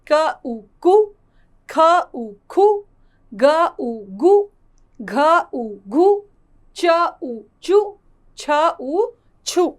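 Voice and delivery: letter, then उ, then the blend with a short u; short u vowel drill. Shown as a demonstration. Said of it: "इसका उच्चारण धीमा होता है". (छोटे उ का उच्चारण)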